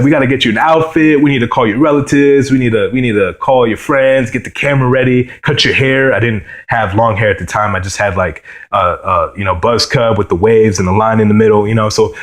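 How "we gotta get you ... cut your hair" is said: excited mom. Retold or imitated. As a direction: rattle off the to-do list like a proud mom. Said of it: "she's like".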